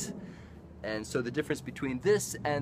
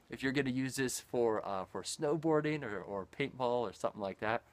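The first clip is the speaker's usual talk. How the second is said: speaking through fabric over mouth; muffled by cloth face covering; through a neck gaiter. Real, not acted. Seen 0: Gaiter pulled over face, covering mouth until lowered near 14.7s.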